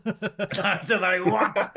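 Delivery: laughing through the words; giggling while talking. Real, not acted. Laughing over the reconnection.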